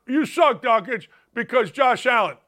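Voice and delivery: lightly hammed-up heckle; mock heckler. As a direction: imitate an annoyed fan heckling you. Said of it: "But people say".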